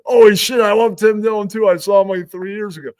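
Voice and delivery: high, loud delighted rave; excited fan. Retold or imitated. Jones raves to the producer about Tim Dillon. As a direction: geek out together. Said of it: "Jones is like".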